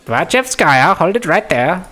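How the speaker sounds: put-on commanding Indian-accented voice. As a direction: call out sharply in an Indian accent. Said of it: "I can't do Russian names in an Indian accent".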